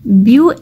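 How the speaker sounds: ब्यू sounded slowly on its own; ब्यू held apart as the first syllable; syllable counting. Shown as a demonstration. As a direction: isolate ब्यू as a single beat. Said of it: "इसमें तीन syllable है".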